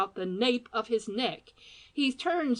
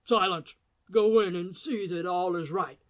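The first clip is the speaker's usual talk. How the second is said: stern command; 4 dB louder than usual. Acted.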